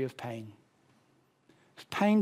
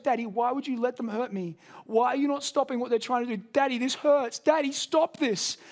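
higher, lightly voiced hurting little girl begging; pleading child; 6 semitones higher than usual. Daughter begging her dad to make the pain stop, lightly pleading child voice. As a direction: mildly plead as a daughter in pain, slowing on the last words.

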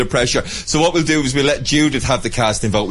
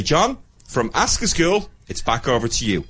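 slow, measured radio sign-off; professional radio manner; 4 dB quieter than usual. Shown as a demonstration. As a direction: say it like a proper radio presenter. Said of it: "very professional radio manner".

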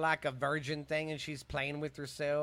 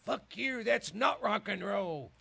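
scornful dad; 5 semitones higher, slower than usual. Retold or imitated. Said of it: "when the eighties came in".

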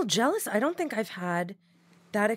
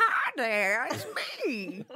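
weird voice; 2 semitones higher, much slower than usual. Pretend. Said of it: "the weirdest voices are coming out today".

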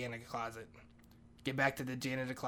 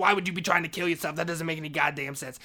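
loud, raised-pitch argument; exasperated challenge; 3 semitones higher, 7 dB louder than usual. Retold or imitated. Maria challenging his excuse, loud exasperated arguing. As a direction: fire the question back loudly. Maria argues back in acted quarrel.

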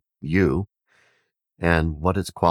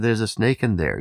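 warning shout; 7 semitones higher than usual. Retold or imitated. Villagers warning the yogi.

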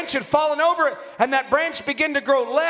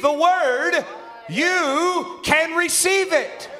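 raised, emphatic preacher's delivery; preaching; 3 semitones higher than usual. Real, not acted. Preacher declaring the evidence of the Holy Ghost, emphatic preaching. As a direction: drive the point home from the pulpit.

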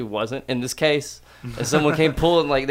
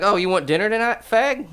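high, mocking tough-mom jab; a hammed-up bossy aunt; 7 semitones higher than usual. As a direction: toss it off like a brash mom. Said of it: "she's gonna be like".

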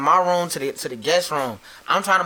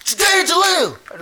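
dad's high, drawn-out yell; imitated yelling; 14 semitones higher, 4 dB louder, much slower than usual. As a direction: call out like an angry dad at the door. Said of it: "he came through the door yelling".

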